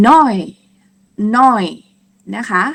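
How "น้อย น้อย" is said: "น้อย" high, loud, falling, as German neun; German neun demonstration. Shown as a demonstration. Teacher introduces German nine, high loud "น้อย". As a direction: model "น้อย" emphatically for learners. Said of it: "เราจะออกเสียงว่า".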